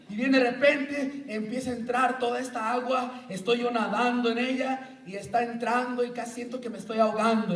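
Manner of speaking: lively acted flood of water, rushing toward the end; mock drowning panic. Preacher acting out drowning in the Spirit, excited. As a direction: play it big, like water is pouring in.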